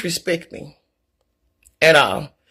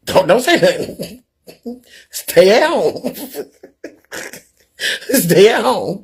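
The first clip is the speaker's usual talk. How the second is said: slow words broken by laughs; laughing; slower than usual. Real, not acted. Telling reluctant adults to stay home, laughing. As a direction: chuckle through the dismissive advice. Laughing at her own advice.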